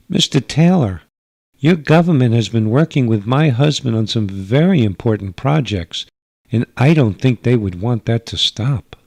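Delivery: a gracious hostess from another world; alien mother. Acted. Alien mother objects politely.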